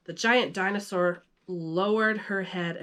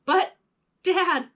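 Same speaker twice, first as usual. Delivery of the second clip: put-on high, louder boy's shout; 10 semitones higher, 5 dB louder than usual. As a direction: call out to dad in alarm. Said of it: "Max shouted".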